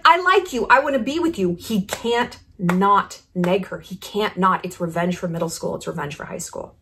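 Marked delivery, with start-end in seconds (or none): 0.1-1.6 mock cheerleader. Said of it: "the cheerleader's like". 4.6-6.8 fading to a hush. Real, not acted. Dropping into a dark aside.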